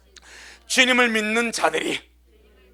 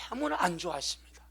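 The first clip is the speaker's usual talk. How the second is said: much softer, fast, falling; quick hushed aside; 5 semitones lower, 11 dB quieter, faster than usual. Real, not acted. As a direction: let 너무나 drop into a near-whisper. Preacher hushes key phrase.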